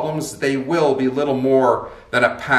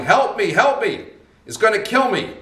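panicked yell; 10 semitones higher than usual. Retold or imitated. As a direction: yell for help as a bull charges you. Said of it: "and he's yelling".

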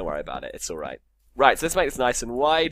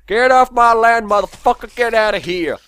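higher, louder furious shouting; angry yell; 11 semitones higher, 11 dB louder than usual. Pretend. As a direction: chase them off your land in a rage. Yelling at mobs on his land.

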